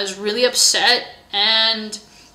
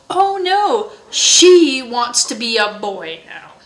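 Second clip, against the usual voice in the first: retold mocking remark; 5 dB louder, slower than usual. Girl correcting a man about Trevor, retold mockingly. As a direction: draw out the retold jibe, pitched up at the start.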